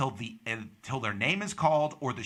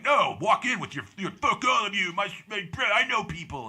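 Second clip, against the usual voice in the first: higher-pitched, pushy brother's advice; mock a cocky, insistent brother in a raised voice; brash urging; 7 semitones higher than usual.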